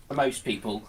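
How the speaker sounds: normal talking voice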